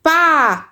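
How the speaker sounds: PÁ as one long open syllable; teacher sounding out PÁ. Shown as a demonstration. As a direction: stretch PÁ out clearly for young learners. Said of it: "Eu falo com eles assim".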